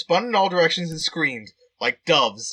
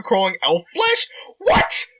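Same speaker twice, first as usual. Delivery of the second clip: shocked cry of disbelief; surprised; 3 semitones higher, 4 dB louder, slower than usual. Real, not acted. Player shocked by the elf flesh, crying out. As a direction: yelp it out in sudden shock. Player reacts to gross scene.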